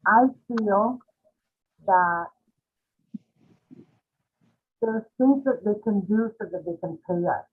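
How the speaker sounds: muffled voice, hand over mouth. Real, not acted. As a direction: speak muffled, mouth covered. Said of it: "you're kinda muffled".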